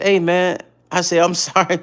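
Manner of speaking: high apology with laughter leaking; trying not to laugh. Retold or imitated. Apologizing to Jackie by phone, stifled laugh. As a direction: hold back a laugh while apologizing. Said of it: "I was trying not to laugh".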